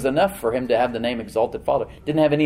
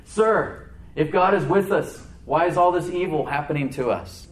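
doubting Gideon; 4 semitones higher than usual. Retold or imitated.

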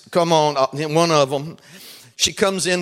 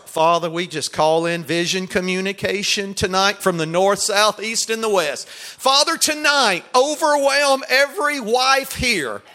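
preaching prayer; 2 semitones higher, slower than usual. Acted. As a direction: lift the congregation in fervent prayer. Leads a prayer.

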